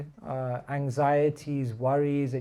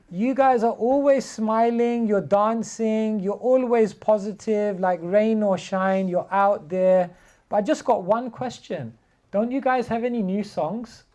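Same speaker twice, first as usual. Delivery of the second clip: cheerful fan; 5 semitones higher, 5 dB louder than usual. Retold or imitated. Stranger in Edinburgh praising the chanters, higher and louder. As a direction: gush like a delighted passer-by. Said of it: "someone came up to me and he said".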